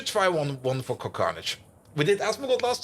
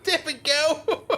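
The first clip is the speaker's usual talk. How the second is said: laughing; 3 semitones higher, slower than usual. Real, not acted. Laughing at the bot's villain laugh.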